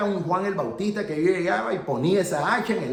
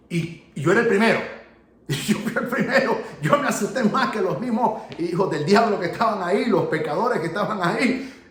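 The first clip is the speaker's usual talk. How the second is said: laughing; 3 semitones higher, 4 dB louder than usual. Real, not acted. Laughs at his own fright.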